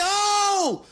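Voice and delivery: high, drawn-out reaction yell; retold outcry. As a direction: cry out at the TV, re-enacted. Retells yelling at the TV.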